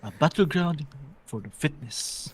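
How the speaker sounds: lightly voiced British wildlife narrator, measured and pausing; David Attenborough. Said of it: "si Attenberg daw".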